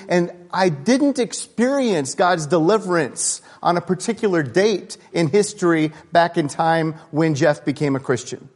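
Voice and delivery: high, loud, impassioned preaching; preaching at full force. Real, not acted. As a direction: preach it out with fire. Preaching climax on Romans seven.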